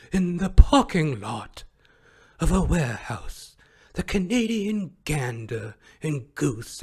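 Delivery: hushed, slow nature documentary narrator; David Attenborough. Pretend. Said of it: "I'm David Attenborough".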